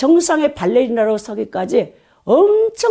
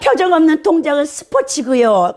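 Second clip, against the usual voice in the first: raised, testy correction; irritated; 5 semitones higher than usual. Retold or imitated. Ballet professor answering a visiting lecturer, mock irritated and raised. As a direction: imitate an annoyed ballet professor. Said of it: "엄청 짜증 섞인 말로".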